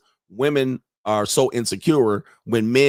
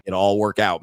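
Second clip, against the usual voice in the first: deadpan repeat; 4 semitones lower than usual. Shown as a demonstration. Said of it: "repeats clip's line".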